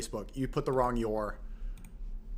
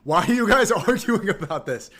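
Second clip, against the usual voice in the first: raised, louder, higher exasperated voice; 4 semitones higher, 6 dB louder than usual. Real, not acted. Streamer telling chat to stop arguing about his career, exasperated. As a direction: argue back at them, loud and fed up.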